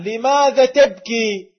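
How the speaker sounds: a loud imitated critic; challenging question. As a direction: throw the question back like the critic. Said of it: "يوجه لك هذا السؤال".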